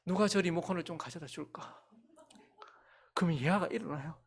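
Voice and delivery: whispered aside, conspiratorial; mock-secret whisper; playful whisper. Secret trick told in whisper.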